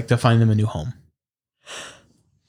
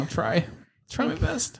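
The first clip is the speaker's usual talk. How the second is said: spirit voice; 14 semitones higher, 8 dB quieter than usual. Acted. Spirit voice answers the player.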